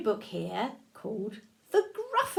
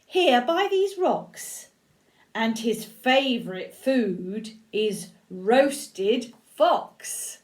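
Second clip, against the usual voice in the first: sly mouse; 4 dB louder, slower than usual. Acted. Mouse slowly teasing the fox about his fate. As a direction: savour the scary news.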